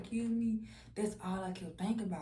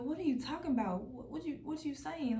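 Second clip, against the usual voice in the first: retold bewildered questioning; 6 semitones higher than usual. Retold mother confused by the child.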